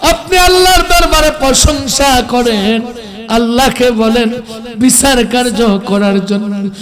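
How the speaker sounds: impassioned preacher's version of pleading; acted tearful plea. Followers begging the Prophet to intercede, acted desperate plea. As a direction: swell into a long cry on the word for followers. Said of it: "বেকুল প্রাণে কেঁদে বলবে".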